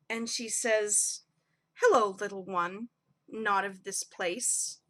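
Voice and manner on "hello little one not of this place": put-on low, unhurried greeting to a child; lightly voiced tender matriarch; gentle dignified elder.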